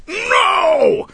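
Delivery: loud, high-pitched shouted protest. Acted. Paris running at the men on deck, shouting. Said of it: "he shouted".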